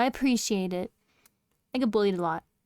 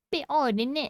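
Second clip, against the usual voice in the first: higher, lilting mock British; playful British; 4 semitones higher than usual. Streamer commenting to chat, playful mock British. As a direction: toss it off in a put-on British accent.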